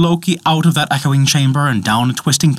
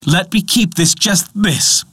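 pleading dwarf; 7 semitones higher than usual. A narrator's reading. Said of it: "pleaded the dwarf".

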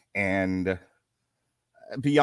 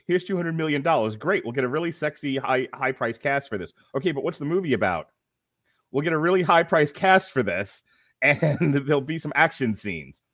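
pitch meeting exec; 3 semitones higher than usual. Retold or imitated. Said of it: "the joke in pitch meeting was".

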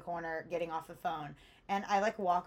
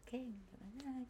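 fast muttered aside; 2 semitones higher, 15 dB quieter, much faster than usual. Retold or imitated. Muttering while ignored.

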